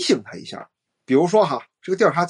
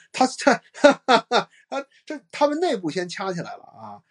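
laughing while talking; 7 semitones higher than usual. Real, not acted. Laughing at the feuding women.

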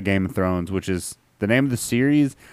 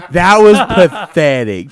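mock scorn; 6 semitones higher, 8 dB louder, slower than usual. Teasing a bad joke.

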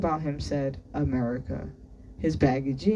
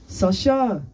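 a raised summons to someone outside; calling out; 6 semitones higher, 7 dB louder than usual. A narrator's reading. Teacher summons a boy from outside, calling out. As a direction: call the name out, higher and louder. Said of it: "Anatol called".

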